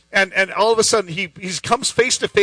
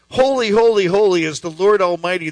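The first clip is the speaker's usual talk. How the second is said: raised, forceful proclamation, short of a yell; yelled declaration. Acted. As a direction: call it out as a declaration. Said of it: "at the top of their lungs, they're yelling this".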